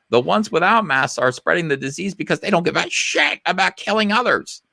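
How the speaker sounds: mock outraged tweet, pitch climbing to the top; mock snap. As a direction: read it as a rising, exasperated snap. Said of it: "Eichenwald snapped".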